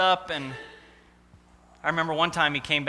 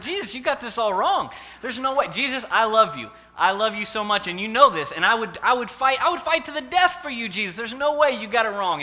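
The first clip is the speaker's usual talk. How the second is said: higher, fervent pleading; passionate protest; 4 semitones higher, 4 dB louder than usual. Acted. Peter vows to Jesus he'd fight to the death, fervently. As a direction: insist you'd die for him.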